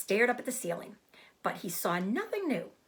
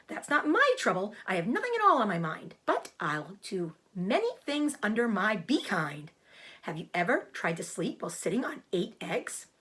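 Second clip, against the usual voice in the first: a goose who talks fast about herself; chatty goose. Acted. Goose explains her trouble.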